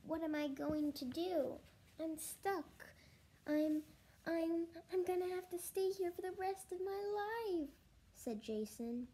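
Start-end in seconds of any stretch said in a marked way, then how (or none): 0.1-7.7 put-on high, louder, rising plea of a stuck boy; panicked wail. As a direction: wail in mounting panic to the teacher. Stuck boy wails to teacher.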